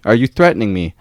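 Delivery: heated pushback at the inspector, pitched high; indignant confrontation. Retold or imitated.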